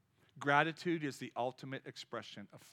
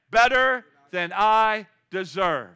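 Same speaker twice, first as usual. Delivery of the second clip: slow, loud, drawn-out model answer; 6 semitones higher, 17 dB louder, much slower than usual. Shown as a demonstration. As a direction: stretch every word so the crowd can echo it. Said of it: "What do you say?".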